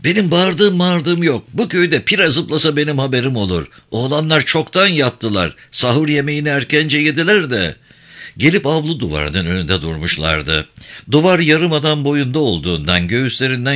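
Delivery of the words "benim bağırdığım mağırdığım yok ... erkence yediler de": high-pitched, touch of indignation; lightly voiced indignant gendarme. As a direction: deny the charge in a raised pitch.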